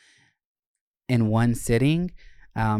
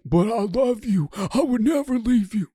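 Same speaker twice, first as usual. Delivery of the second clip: much higher, mock-sweet promise; mock reassuring boyfriend; 11 semitones higher than usual. Imitating the top reassuring his boyfriend. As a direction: play the doting partner. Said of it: "And he's like".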